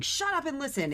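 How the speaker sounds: commanding. Retold or imitated. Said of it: "not listen to me in a commanding way".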